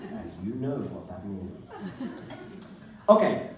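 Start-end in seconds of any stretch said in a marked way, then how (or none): 3.1-3.5 reading his text message. Acted. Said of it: "here is my S M S".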